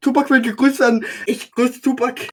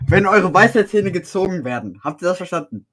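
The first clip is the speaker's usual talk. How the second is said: slower, carefully articulated; slow and clear; 4 semitones lower than usual. Shown as a demonstration. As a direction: spell it out slowly and clearly. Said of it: "Langsam, langsam und deutlich".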